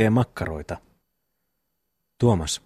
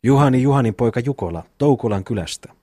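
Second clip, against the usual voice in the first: mildly raised court-crier call; official calling out. Acted. Commissioner calling witnesses before the court, mildly proclaimed. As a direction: call out names formally, without real shouting. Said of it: "huusi korkealla äänellä".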